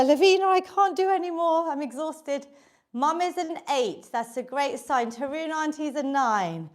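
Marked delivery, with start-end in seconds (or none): 0.0-2.5 mock exhausted. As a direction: play a worn-out mum begging to stop. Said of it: "ten is where".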